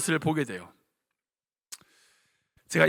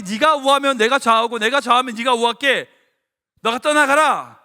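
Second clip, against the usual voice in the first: louder, commanding uncle; forceful Abraham; 2 semitones higher, 6 dB louder than usual. Retold or imitated. Preacher voicing Abraham telling Lot to choose, loud and commanding. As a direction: lay down the choice firmly.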